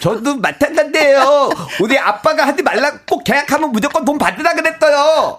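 put-on cutesy baby talk. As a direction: whine it like a little kid. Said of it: "계속 혀 짧은 소리로 오늘".

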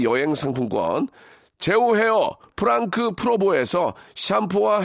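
slow, punchy radio announcer; deliberate ad-read delivery; sponsor prize read. Acted. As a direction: announce each prize with stretched, stressed words.

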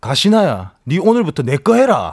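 Busan dialect fan-service line, said cool and direct. Shown as a demonstration. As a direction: deliver it like a gruff Gyeongsang flirt. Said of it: "그 팬 서비스 사투리 제가 알려드릴게요".

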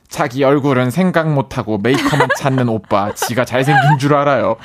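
reads the note, laughing; reading with a laugh. Real, not acted. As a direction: read it out, chuckling. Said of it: "동생 말 그대로 적어볼게요".

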